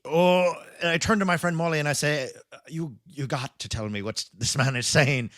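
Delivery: put-on storytelling in an amateur Irish accent. Podcaster telling his co-host a bar story on request, in an attempted Irish accent. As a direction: spin the tale in a mock Irish lilt. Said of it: "You better do it in an accent".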